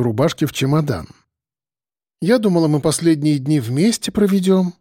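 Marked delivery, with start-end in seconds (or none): none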